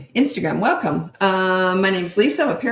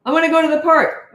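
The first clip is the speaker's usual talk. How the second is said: put-on high, louder childish plea; mother voicing a child who wants the park; whining child; 10 semitones higher, 6 dB louder than usual. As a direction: beg like a four-year-old. Child begging in scenario.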